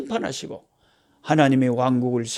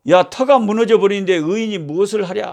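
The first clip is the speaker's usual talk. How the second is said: higher-pitched imitation of a scoffer; mocking challenge; 4 semitones higher than usual. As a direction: taunt the righteous as the wicked would. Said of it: "막 조롱하고". (조롱하듯 따지는 흉내)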